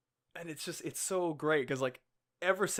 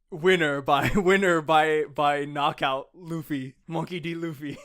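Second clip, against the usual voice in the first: mock fight announcer; 9 dB louder than usual. Fan announcing Luffy's win by knockout, mock announcer. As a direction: call the knockout like a ring announcer.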